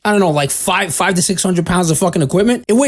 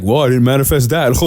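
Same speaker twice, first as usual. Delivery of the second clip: mock sheepish admission; 5 semitones lower than usual. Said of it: "he's like".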